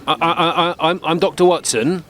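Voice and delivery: halting, repeated false starts; nervous, stumbling introduction; flustered stammer. Acted. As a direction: stammer over the first word before getting it out. Flustered self-introduction to confused woman.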